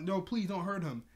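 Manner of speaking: mock-urgent appeal; pleading. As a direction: imitate begging for mercy. Starfire pleading, said again.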